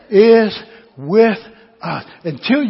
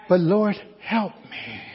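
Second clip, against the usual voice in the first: soft, pleading prayer; humble prayer; 8 dB quieter than usual. Acted. Preacher voicing a believer asking the Lord's help, humbly. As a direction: pray it quietly, phrase by phrase.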